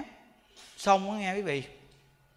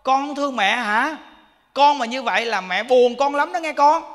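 louder, higher pleading mother to her dead son; louder tearful-sounding plea to her son, lightly voiced; pleading old mother; 4 semitones higher, 5 dB louder than usual. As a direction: beg the son as a grieving mother. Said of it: "người mẹ cũng nói".

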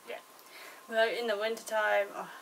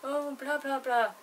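a touch higher, mocking whiny moan; mock whinging; 4 semitones higher than usual. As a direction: imitate moaning Brits, lightly whiny. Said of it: "they're fucking whinging".

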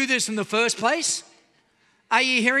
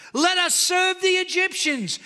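mocking whine, a bit higher, stretching "the Egyptians"; mock grumbling Israelites; whiny complaining; 4 semitones higher than usual. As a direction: whine "Let us serve the Egyptians" like a sulking crowd. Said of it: "listen to the complaints".

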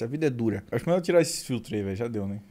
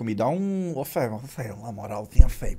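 imitating a beggar; 4 semitones lower than usual. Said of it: "assim, ô, maluco".

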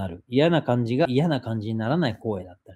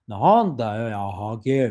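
scary version; 3 dB louder than usual. Retold or imitated. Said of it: "って言うと怖いんだけど".

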